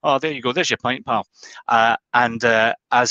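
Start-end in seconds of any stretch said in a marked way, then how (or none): 0.0-1.3 mild Glaswegian barman serving a pint. Retold or imitated. Barman serving Louis, mild Glaswegian accent. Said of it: "He's Glaswegian".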